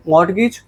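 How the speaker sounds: मॉर्टगेज with an audible T, "mort-gage"; naive reading. Shown as a demonstration. Teacher shows how people read it, मॉर्टगेज with T sounded. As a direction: read मॉर्टगेज as spelt, T and all. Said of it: "ऐसे करते".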